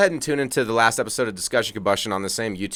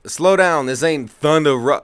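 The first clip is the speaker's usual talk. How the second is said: East Coast accent; 4 semitones higher, 6 dB louder than usual. Shown as a demonstration. Co-host attempts road sign on request, East Coast accent. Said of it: "read these in an East Coast accent".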